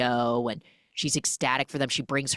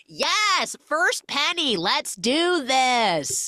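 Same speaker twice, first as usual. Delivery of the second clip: much higher, drawn-out little victory cry; excited cheer; 10 semitones higher, 4 dB louder, much slower than usual. Retold or imitated. Busking heroine over her first penny, excited. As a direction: squeal it like a small win.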